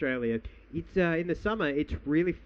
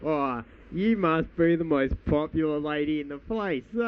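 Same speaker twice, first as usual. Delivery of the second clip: imitating Tony Abbott. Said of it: "He goes".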